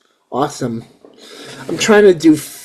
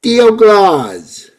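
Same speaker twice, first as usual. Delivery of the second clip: Latino accent over Brooklyn vowels, higher and louder; Brooklynese Latino accent; 7 semitones higher, 5 dB louder than usual. Shown as a demonstration. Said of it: "I know I said that in a Brooklynese, uh, Latino accent".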